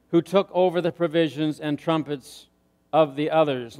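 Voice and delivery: steady reading voice for the Bible passage; measured pulpit scripture reading. Acted. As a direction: read the verses out to the congregation. Reads Judges passage aloud.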